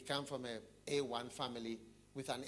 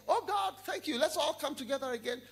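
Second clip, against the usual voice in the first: pious banker; 11 semitones higher, 5 dB louder than usual. Acted. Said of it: "he said".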